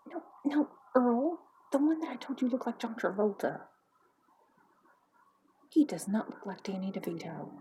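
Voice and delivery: lightly voiced exasperated wife; a hint of a nagging busybody; bickering wife. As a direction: argue with your husband over who that is. Wife arguing over who it is.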